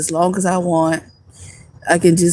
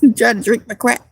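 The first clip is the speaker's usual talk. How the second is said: laughing; 3 semitones higher than usual. Retold or imitated. Repeats quote laughing.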